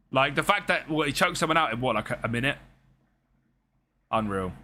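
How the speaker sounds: groggy, hungover speech. Real, not acted. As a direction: talk like the morning after. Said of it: "Sorry, lads, I'm hungover".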